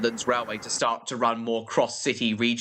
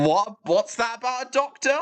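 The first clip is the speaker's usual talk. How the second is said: baffled; 10 semitones higher, 3 dB louder, faster than usual. Real, not acted. Baffled reaction.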